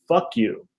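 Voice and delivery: put-on hushed American-accented curse, every word clear; perfect English, no accent. Mom cursing out her laughing son, no accent. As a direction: curse softly in clean, accent-free English. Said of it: "she didn't have any accent".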